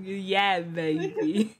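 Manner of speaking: a hint of swinging British spy; light British catchphrase impression; Austin Powers. Showing what the voice is like, light Austin impression. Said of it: "an Austin Powers kind of voice".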